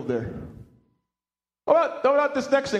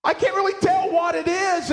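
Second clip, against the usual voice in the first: puzzled; 9 semitones higher than usual. Retold or imitated. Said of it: "and go".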